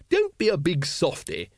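jolly him along; cheerful. A narrator's reading. Lady Ramkin bandaging the sergeant, cheerfully. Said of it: "said Lady Ramkin cheerfully".

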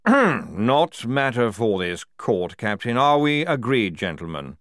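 loud, slow-starting authority; firm general. Acted. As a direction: shut the subject down firmly. General shuts down testimony.

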